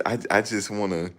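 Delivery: stuttering boxer; lightly mimicked dazed fighter; imitating Meldrick Taylor. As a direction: stammer on "I" then blurt it.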